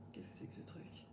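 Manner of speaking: puzzled whisper to herself. Real, not acted. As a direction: breathe it out, no voice. Puzzled by cork. (chuchoté, perplexe)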